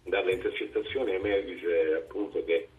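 distant speakerphone sound; talking over a phone on speaker. Real, not acted. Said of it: "sei in viva voce?".

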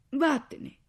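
high, loud tearful burst; through sobs. A narrator's reading. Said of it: "riuscì a dire tra i singhiozzi". (sbotta tra i singhiozzi)

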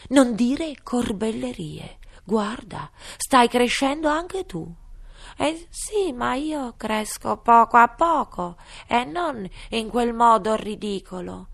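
high, loud squeaky scolding; high indignant dormouse. Acted. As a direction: protest like a tiny creature. Dormouse retorts. (ghiro indignato)

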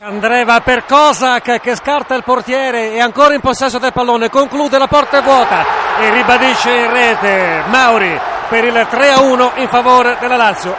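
loud, drawn-out goal call; excited goal call. Real, not acted.

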